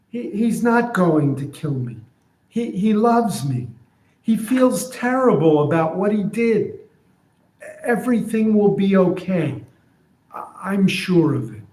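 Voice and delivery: donkey reassuring itself; denying donkey. Retold or imitated. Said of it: "So here's what I'm imagining".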